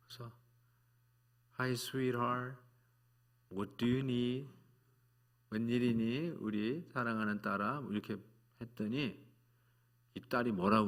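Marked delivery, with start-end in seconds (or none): 1.6-7.8 tender father. Retold or imitated. Father greets adopted daughter tenderly.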